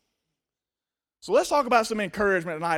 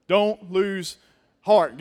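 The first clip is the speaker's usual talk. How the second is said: loud, the word heart punched; loud call and response; 7 dB louder, much slower than usual. Shown as a demonstration. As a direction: call it out to the room. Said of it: "Good job".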